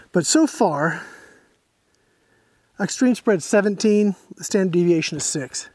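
winded after pumping the rifle; breathing hard between words. Real, not acted. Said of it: "I'm a little bit out of breath".

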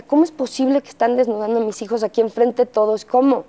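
rápido y alto, ¿cómo es posible?; indignación recordada. Retold or imitated. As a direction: protesta indignada, acelerada. Indignada ante desnudo de hijos. (indignación de madre que ve desnudar a sus hijos, rápida)

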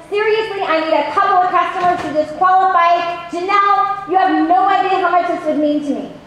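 gushing, eager excited call. Shown as a demonstration. Coach demoing an excited call to Janelle, eager. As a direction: sell the favor with delight. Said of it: "No, it should sound like this".

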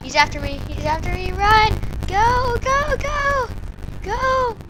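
high, loud frantic go go; panicked yelling. Real, not acted. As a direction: yell in real fear. Chased by monster.

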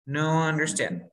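slow broken English. Shown as a demonstration. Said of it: "yo hubiese dicho".

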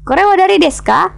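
direct-speech version. Shown as a demonstration. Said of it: "Karena langsung ya, percakapan langsung".

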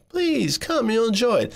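high coaxing plea, lightly voiced; pleading husband. Husband coaxing reluctant wife onto plane, high pleading voice. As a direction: sweetly beg her to come along. Father urging mother to fly.

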